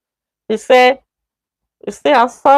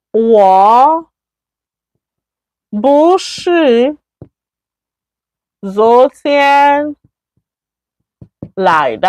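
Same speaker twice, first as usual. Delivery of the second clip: word by word with pauses, 不是 lifted; slow model sentence; much slower than usual. Shown as a demonstration. Teacher showing the negative form, slow and separated. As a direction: dictate the negative slowly, one word at a time. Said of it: "That, I didn't come yesterday".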